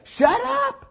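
sharp, high, loud shout; crowd's shout. Retold or imitated. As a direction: snap at him to shut up. Crowd silencing blind man.

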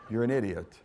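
amused laughing rebuke. Real, not acted. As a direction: chuckle through the insult. Preacher repeats insult laughing.

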